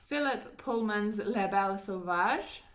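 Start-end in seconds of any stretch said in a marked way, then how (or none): 1.2-2.6 a hint of French on La Belle Sauvage; half-joking French lilt; light French accent. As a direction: slip briefly into a French accent. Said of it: "I did a weird little accent thingy there".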